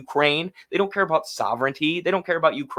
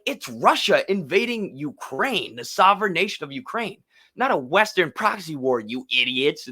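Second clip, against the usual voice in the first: condescending liberal voice. Retold or imitated. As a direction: imitate a smug lecturing liberal. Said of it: "in the most condescending liberal voice".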